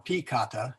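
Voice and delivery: piccata with an EE first syllable; mispronounced peccata. Shown as a demonstration. Teacher adding another wrong version, piccata as pee-cata. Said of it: "piccata would be the last one".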